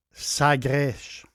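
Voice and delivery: Sagres said the Portuguese way, final s as sh; Portuguese pronunciation, "Sagresh"; Portuguese accent. Shown as a demonstration. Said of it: "je prends mon accent portugais".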